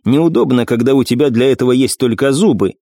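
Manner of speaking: plain reading voice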